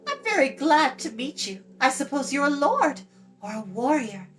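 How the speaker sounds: put-on high, bright girl's voice; chatty girl. Eilonwy talks down to Tarn, high and bright. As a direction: rattle on like a cheeky young girl.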